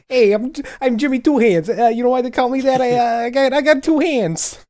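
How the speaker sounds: annoying mafia rookie, very high and loud; Jimmy Two Hands. Acted. Rookie introducing himself to the mob, annoying and loud. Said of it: "very annoying rookie to an, uh, to the Italian mafia".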